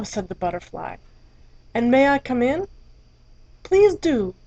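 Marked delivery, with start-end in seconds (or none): 1.7-2.7 higher, light curious butterfly. Acted. Butterfly politely asks entry. 3.6-4.3 smiling, welcoming elephant; with a smile. Acted. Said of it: "the elephant said with a smile".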